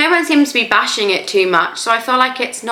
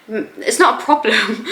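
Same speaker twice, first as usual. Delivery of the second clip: laughing. Real, not acted. Laughing off a drinking remark.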